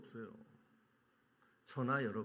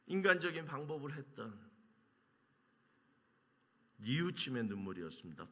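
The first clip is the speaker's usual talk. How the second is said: usual speaking voice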